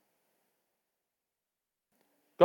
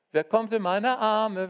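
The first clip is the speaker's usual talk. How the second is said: slow, raised, open-armed question; louder divine invitation; inviting call; 7 semitones higher, 6 dB louder, slower than usual. Acted. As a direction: draw them in, slowly. God's invitation repeated.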